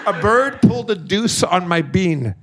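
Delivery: amused, emphatic restatement; laughing repeat. Real, not acted. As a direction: repeat the punchline through laughter. Repeats punchline while laughing.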